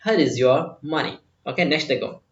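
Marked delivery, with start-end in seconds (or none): 0.1-1.1 slow model repeat. Shown as a demonstration. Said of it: "वो बोल रहा है".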